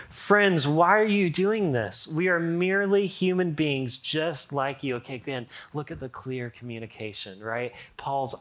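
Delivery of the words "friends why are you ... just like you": shouted plea. Acted. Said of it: "people shouting".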